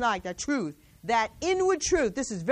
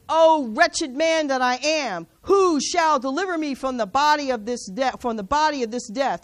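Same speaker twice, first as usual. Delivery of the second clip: crying out; 4 dB louder than usual. Retold or imitated. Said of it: "He said".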